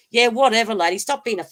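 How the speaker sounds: quoting the girl telling the scammer to get lost, loud and mocking; mocking brush-off. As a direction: tell the scammer off with scorn. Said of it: "the girl goes".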